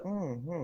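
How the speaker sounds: soft, noncommittal mm-hmm; imitated humouring hum. Copying a partner who gave up, humouring. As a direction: hum along quietly without engaging. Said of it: "you be doing this like".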